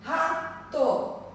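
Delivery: Rato with the first syllable ra stressed; teacher showing paroxytone stress. Shown as a demonstration. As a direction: lean on ra in Rato. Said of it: "Ó, paroxítona".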